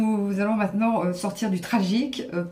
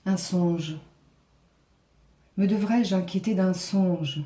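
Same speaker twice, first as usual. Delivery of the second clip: solemn classical verse recitation; grand tragic stage delivery. Acted. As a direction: declaim it like a tragic queen. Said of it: "vous interpréter, euh, une petite tirade d'Athalie, un peu tragique".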